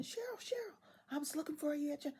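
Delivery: high, fast, breathless calling of her name; excited calling. Retold or imitated. Manager running down the hall calls out to Cheryl, high and breathless.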